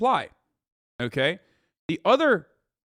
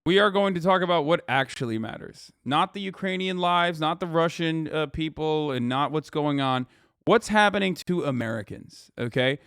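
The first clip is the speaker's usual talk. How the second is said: sarcastic. Acted. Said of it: "I'm being sarcastic".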